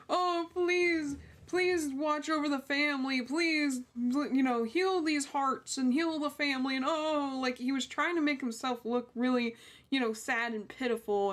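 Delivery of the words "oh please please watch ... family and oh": higher, whiny mock prayer; mocking pleading killer. Mocking the killer's courtroom prayer, in a higher whiny mock plea. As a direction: parody his fake pitiful plea. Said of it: "this guy literally sat there and go".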